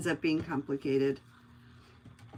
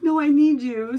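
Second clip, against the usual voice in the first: louder, higher imitation of a needy trainee; retold pleading; 6 semitones higher, 9 dB louder than usual. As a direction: plead urgently, as if quoting. Retelling trainee's plea.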